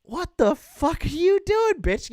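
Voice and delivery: high, loud outraged protest; shocked protest. Retold or imitated. Fighting off his girlfriend in bed, high loud shocked protest. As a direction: snap at her in disbelief.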